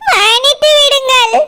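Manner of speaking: slow, laughing mock-formal plea; laughing sarcasm through the words; sarcastic mock apology. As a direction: parrot the apology with scorn.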